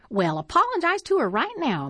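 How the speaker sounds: a hint of a fussy elderly neighbour poking fun; prim old lady.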